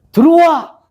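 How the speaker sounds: high, punched movie-line imitation; 황정민. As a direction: shout the film catchphrase as a mimic. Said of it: "황정민 씨가 엘리베이터 안에서". (영화 명대사를 높게 외치며 흉내)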